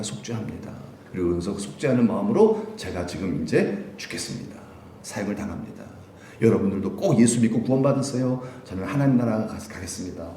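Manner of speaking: soft, humble confession; a prisoner softly confessing before his execution; repentant prisoner. Retold or imitated. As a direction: speak a condemned man's quiet last words of repentance. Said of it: "이러고 편하게 돌아가신대잖아요".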